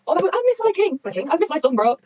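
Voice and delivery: high-pitched wail of longing; high, overwrought fan outburst; emotional fangirling. Real, not acted. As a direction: gush over a beloved favourite. Fan overjoyed at favourite's possible return.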